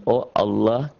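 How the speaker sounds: "Oh Allah" with a rounded O in "Allah"; "Oh Allah", demonstrating the thick vowel; thick O sound. Shown as a demonstration. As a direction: say "Allah" like "Olloh", heavy L.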